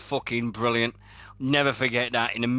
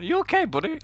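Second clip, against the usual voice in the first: concerned voice; faster than usual. Retold or imitated. Imitating Doug Williams.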